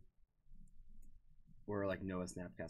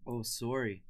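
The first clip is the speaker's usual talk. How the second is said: brief put-on Canadian accent; a touch of Canadian accent; 3 semitones higher, 4 dB louder, slower than usual. Shown as a demonstration. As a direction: say it like a Canadian apologizing. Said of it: "you'll have the accent down".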